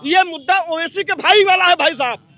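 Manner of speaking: worked-up argumentative protest; heated objection. Real, not acted. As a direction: cut in forcefully to keep to your point. Heated interruption, insisting on his topic.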